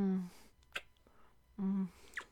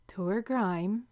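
said slower. Shown as a demonstration. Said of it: "Just repeat after me".

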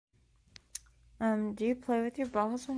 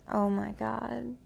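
slow breathy moan of the words; slower than usual. Shown as a demonstration. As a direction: moan it out slowly. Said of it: "you have at least once moaned".

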